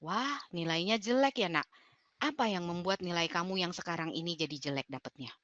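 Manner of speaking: soft, calm, caring parent; gentle question. Shown as a demonstration. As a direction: ease into the question kindly. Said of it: "Oke, itu hindari".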